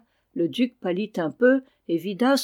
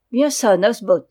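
louder, pleased exclamation; delighted cry; 7 dB louder than usual. A narrator's reading. The duke is delighted with the dwarf, exclaiming. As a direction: call out in delight. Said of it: "s'écria le duc enchanté".

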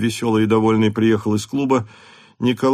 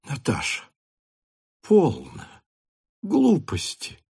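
dismissive mother; 4 semitones higher, 4 dB quieter than usual. A narrator's reading. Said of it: "ещё надеясь, что это была шутка".

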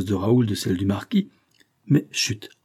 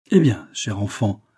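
put-on fatherly and kind to a timid girl; gentle, paternal greeting; kindly voice; 3 dB louder than usual. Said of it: "demanda-t-il de sa bonne voix".

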